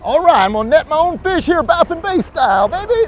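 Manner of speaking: loud calls over the water; calling from far away. Real, not acted. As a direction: shout it across the boat. Loud calls while landing a fish.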